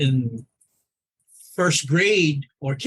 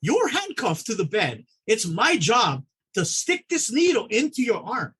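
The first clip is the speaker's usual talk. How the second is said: mock threat to patient; 5 semitones higher than usual. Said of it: "I was like".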